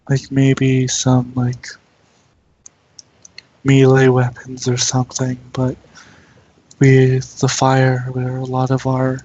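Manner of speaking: measured, even-pitched mental voice, with pauses; lightly voiced telepathic Roserade. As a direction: lightly play a reserved creature giving a warning. Game master voices Roserade telepathically.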